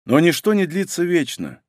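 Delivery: ordinary delivery, nothing marked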